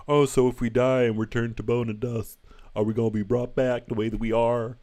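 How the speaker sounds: a hammed-up Southern American accent asking if the dead come back. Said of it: "I don't know why they're Southern American".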